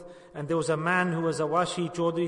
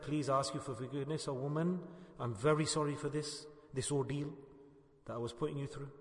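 hushed and contrite; subdued apology; 7 dB quieter than usual. Retold or imitated. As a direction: voice a quiet, humble apology. Voices the man's repentant apology.

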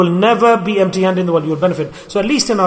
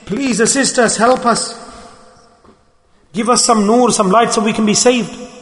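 higher, desperate begging cry; pleading scream; 4 semitones higher than usual. Retold or imitated. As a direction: beg for rescue from the fire. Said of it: "the first group will shriek out and scream".

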